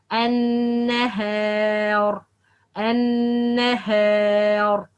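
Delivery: long front vowel in النهار, kept light; correct light alif. Shown as a demonstration. Teacher models the right way, light alif. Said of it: "But the right".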